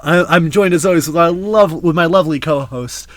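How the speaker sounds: mock-fancy British show introduction; fancy accent. Host introduces his lovely co-host, fancy accent. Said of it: "with that accent".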